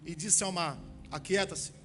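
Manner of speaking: steady scripture reading. Acted. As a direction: read the passage to the church. Reads Bible passage aloud.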